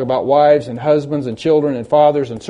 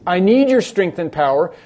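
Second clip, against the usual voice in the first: slightly raised, emphatic plea to God; pleading prayer; 3 semitones higher, 3 dB louder than usual. Acted. Preacher modelling a kneeling believer's prayer, pleading for strength. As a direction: call out for help in earnest prayer. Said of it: "get on your knees and say".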